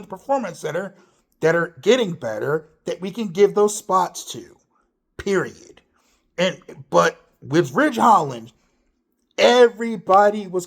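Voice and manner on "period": breathy whisper to close the point; whispered period. Real, not acted. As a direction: drop to a whisper for the final word. Punchline after rant.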